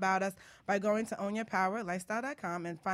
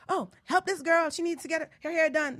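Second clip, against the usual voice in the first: salon lady; 9 semitones higher, 6 dB louder than usual. Retold or imitated. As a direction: order someone to help the girl. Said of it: "and she said".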